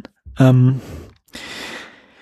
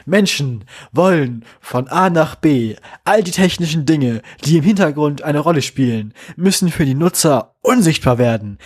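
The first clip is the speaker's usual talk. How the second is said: grand solemn speech. Retold or imitated. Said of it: "so erhabene Musik im Hintergrund".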